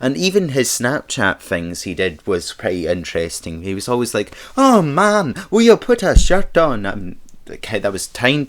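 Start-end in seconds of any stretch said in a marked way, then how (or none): 4.6-6.8 shaky, failed, very high attempted Irish accent. Speaker quotes a man's Snapchat line, in an attempted Irish accent. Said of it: "kind of attempt attempt at an Irish uh, Irish Irish voice".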